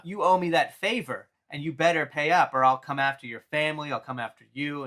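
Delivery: mock Joker taunting then threatening; Joker threat. Joker threatening Charlie on the phone, mock menace. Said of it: "He's like".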